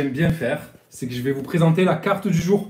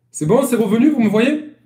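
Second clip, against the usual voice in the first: relieved call; 6 semitones higher, 5 dB louder than usual. Real, not acted. Connection restored, calling to viewers.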